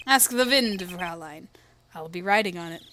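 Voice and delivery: lightly voiced suave farewell, W as V; smooth German charmer. Gentleman bidding a young lady farewell, smooth mock German. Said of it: "He's a smooth character".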